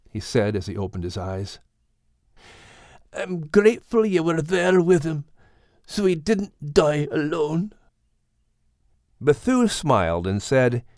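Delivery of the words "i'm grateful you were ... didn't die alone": raised, tender grieving voice; Max's voice. Acted. Max thanking friends through tears, tender voice.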